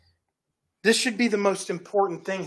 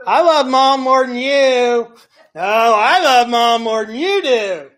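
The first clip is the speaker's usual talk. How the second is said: sibling squabble; 6 dB louder, slower than usual. Acted. Siblings arguing who loves mom.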